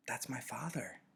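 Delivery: soft unvoiced whisper, as if not to wake babies. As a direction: breathe the words so the newborns stay asleep. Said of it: "Jonas found himself whispering".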